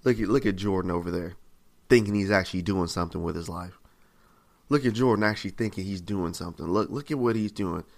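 understated, scornful jeering; mocking onlookers. Scoffers laughing about a believer, mildly derisive. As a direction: talk lightly down about someone, mock disbelief. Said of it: "when somebody mentions my name, they laugh".

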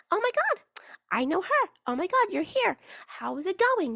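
high-pitched mock hello to friends; playfully put-on excited greeting; gushing greeting. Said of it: "say hello to all your friends".

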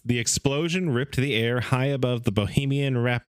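measured read-aloud narration; story reading. Acted. Host reading a book's story to his co-hosts, narrating. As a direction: read the account like an old magazine story.

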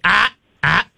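two short warning "ah" sounds; mildly growled correction to a dog; demonstrated warning growl. Shown as a demonstration. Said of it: "you just give 'em a growl".

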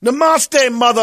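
high, loud, mocking Namaste, mother; hammy mock yoga greeting. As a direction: toss it off like a yogi. Joke line, high and loud.

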